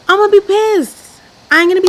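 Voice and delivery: pissed. Pretend. Annoyed at a lying date.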